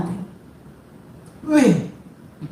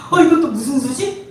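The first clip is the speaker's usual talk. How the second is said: playfully baffled reaction; lightly acted astonishment; mock surprise; 3 semitones higher than usual. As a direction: act out amused puzzlement.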